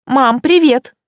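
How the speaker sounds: bright, loud cheery hello; cheerful greeting. A narrator's reading. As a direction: sound upbeat for mom. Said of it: "сказала я".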